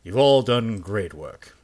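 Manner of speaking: measured official dismissal; icy polite interrogator. Acted. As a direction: speak as a formal superior, coolly polite. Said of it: "I'm talking in the interrogator's voice".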